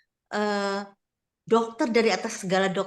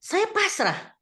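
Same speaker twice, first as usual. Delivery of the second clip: retold surrender; 12 semitones higher, much slower than usual. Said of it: "saya makanya itu saya bilang".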